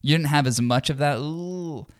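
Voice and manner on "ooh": soft, higher drawn-out "ooh"; thick-accented "ooh". Retold or imitated. Comparing a friend's accent to the singer's, thick "ooh". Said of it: "He's a little bit thicker".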